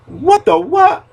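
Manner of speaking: high squeaky disbelief jumping way up; shocked squeal. Retold or imitated. Hearing he won almost every vote, shocked squeal. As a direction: leap up into a stunned squeal.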